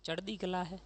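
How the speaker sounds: lightly imitating a slow Punjabi greeting. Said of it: "Ganganagar वाले धीरे धीरे बोलते हैं".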